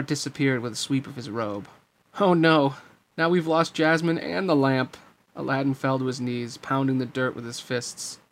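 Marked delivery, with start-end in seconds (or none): 2.2-5.0 higher, louder outburst of dismay. Acted. Aladdin loses Jasmine and the lamp, dismayed. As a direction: blurt out the sudden loss. Hero despairs at the loss.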